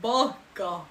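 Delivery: anime voice. Shown as a demonstration. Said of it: "I can also speak Japanese".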